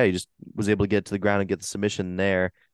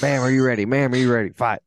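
loud, higher strained ring announcer call; referee impression; 4 semitones higher, 4 dB louder than usual. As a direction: belt it out like a fight referee. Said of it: "I hurt my throat trying to do that".

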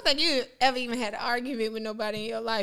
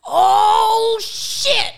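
high, loud blurted exclamation; a little girl repeating a curse, high and loud; toddler exclaiming; 9 semitones higher, 8 dB louder than usual. Retold or imitated. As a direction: blurt it like a shocked kid. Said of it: "She was like".

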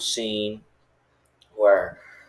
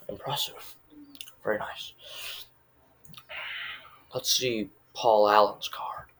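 hushed Bateman quote; 3 dB quieter than usual. Retold or imitated. Acting Bateman viewing rivals' cards.

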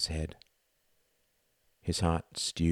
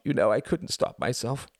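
rising, louder sobbing plea; tearful confession building higher and louder; 9 semitones higher, 5 dB louder than usual. A narrator's reading. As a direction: break down while confessing. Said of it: "he sobbed".

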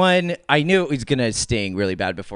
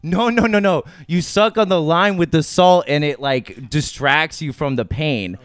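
insistent lady; 4 semitones higher than usual. Retold or imitated. Voicing insistent taco lady.

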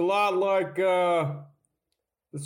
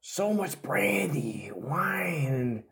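hungover. Acted. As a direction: sound wrecked from last night's drinking. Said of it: "I'm so hungover".

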